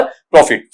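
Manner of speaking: "प्रॉफिट" with a short "fit" ending; correct pronunciation. Shown as a demonstration. Teacher putting the sounds together, "प्रॉफिट" as pro-fit, correct pronunciation. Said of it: "क्या बन जाएगा वहां पर".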